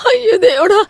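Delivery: crying, pitch climbing on each look; tearful accusation. Acted. Wife crying to mother-in-law, showing the son's secret photos. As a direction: push the proof at them through tears.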